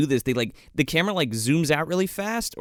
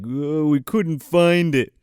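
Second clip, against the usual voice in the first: henchman reporting failure; 4 dB louder, slower than usual. Retold or imitated. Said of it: "Lister comes back, and he's like".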